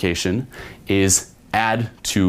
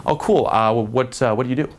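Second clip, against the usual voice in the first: challenging vibe; 4 semitones higher than usual. Shown as a demonstration. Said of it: "a more challenging type of vibe".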